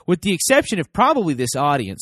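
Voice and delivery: ordinary delivery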